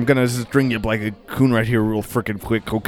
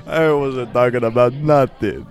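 put-on Jamaican accent. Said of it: "Jamaican Eye".

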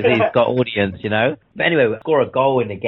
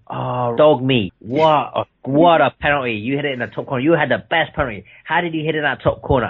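proud dad praise; 3 semitones higher than usual. Retold or imitated. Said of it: "all he kept to".

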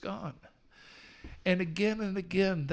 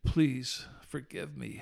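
retold prayer; 2 semitones lower than usual. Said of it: "I dropped to my knees and I said".

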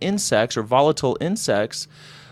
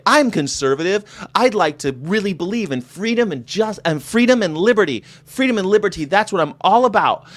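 higher-pitched, keen believer; eager idealist; 7 semitones higher than usual. Acted. Conservative telling the right what they believe, eager. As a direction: proclaim it in an eager, lifted voice.

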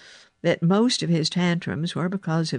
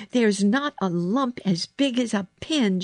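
higher, emphatic denial; insistent; 6 semitones higher than usual. A narrator's reading. Girl reassures boy after looking at his back, insistent. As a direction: press the point firmly. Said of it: "she insisted".

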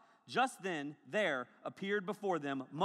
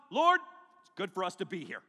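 nervous Peter; 5 dB louder than usual. Acted. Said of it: "you just say stupid stuff whenever you're nervous".

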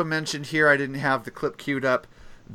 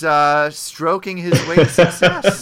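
suppressed laughter; 4 semitones higher, 9 dB louder than usual. Real, not acted. Crude joke, group laughing.

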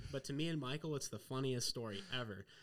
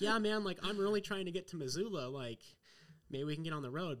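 mock eager plea; 5 semitones higher, 3 dB louder than usual. Pleading with driver to leave.

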